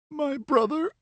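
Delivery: very high rising question; a girl choking on grief; pained question. A narrator's reading. Livia's voice in narration.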